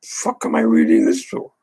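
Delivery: high breathy sarcastic art-lover voice; sarcastic impression of an art fan; mocking art fan. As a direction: mimic a fed-up reader, mocking. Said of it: "They wanna read this and go".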